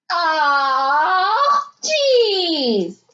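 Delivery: high, groaning dismay with a laugh; dismayed aw jeez. A narrator's reading. Everyone sees the bed head.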